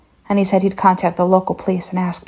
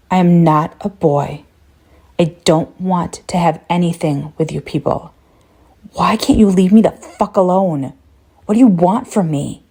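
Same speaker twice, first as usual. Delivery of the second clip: angry yell. Acted. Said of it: "scream at the cunt".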